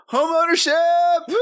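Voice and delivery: a half-hearted, deflated cheer; sad woo. Acted. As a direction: cheer with no energy at all. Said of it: "saddest woo".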